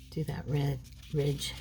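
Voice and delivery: throaty, catching frog in throat. Real, not acted. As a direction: talk through a frog in throat. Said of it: "I have got a frog in my throat".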